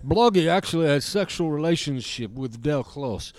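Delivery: gruff Eastern European puppet; Bloggy voice. Acted. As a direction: demand a cigarette in broken English. Bloggy voice continues.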